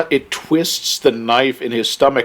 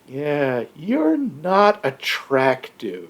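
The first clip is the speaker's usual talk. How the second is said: slow, drawn-out mock verdict; deadpan imitated put-down; 5 dB quieter, much slower than usual. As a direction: stretch it out as a blunt movie-quote brush-off. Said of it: "Looking at him going".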